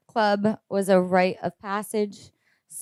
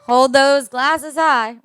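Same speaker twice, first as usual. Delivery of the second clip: toast call; 3 semitones higher, 6 dB louder, slower than usual. Real, not acted. Calls guests to raise glasses.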